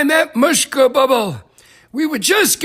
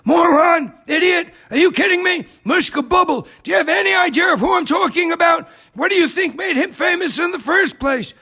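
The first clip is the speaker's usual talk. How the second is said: higher-pitched, indignant scolding; indignant outburst; 6 semitones higher than usual. Acted. Defending Mushka Bubble to a doubter, indignant.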